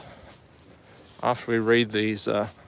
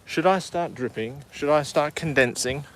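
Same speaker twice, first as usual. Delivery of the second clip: voiced nose; 3 semitones higher than usual. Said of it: "the nose to start going".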